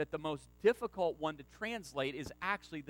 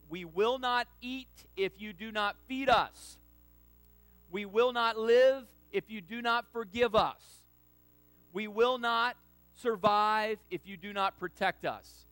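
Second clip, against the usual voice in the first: louder and higher, pleading to God; earnest plea; 4 semitones higher, 7 dB louder than usual. Acted. Preacher voicing the church's plea to God, louder, higher. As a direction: build each line with rising force. Preacher building the three pleas.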